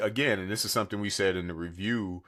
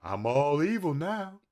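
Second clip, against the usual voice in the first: evil cartoon dog voice; 7 semitones higher than usual. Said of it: "all I hear in her head".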